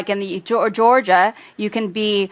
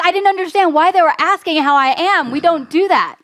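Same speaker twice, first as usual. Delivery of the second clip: quoting her in a higher voice; imitating the girl; 8 semitones higher than usual. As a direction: retell her surprised words, pitched up. Retelling the Lithuanian girl's words.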